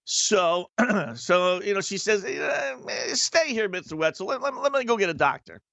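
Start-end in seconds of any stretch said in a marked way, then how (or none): 2.2-5.6 a light imitation of the nurse, pitched higher; lightly voiced nurse, telling him to stay put; mock nurse. Nurse telling the patient to wait, lightly imitated higher.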